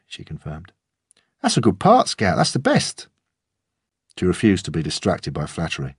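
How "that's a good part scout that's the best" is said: much higher, bright encouraging dad; father flattering his little girl; proud praise. Acted. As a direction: lift the voice to cheer her.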